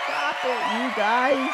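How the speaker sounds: high, playful mock modesty; bashful fake protest at the crowd; gentle teasing. Reacting to fake applause.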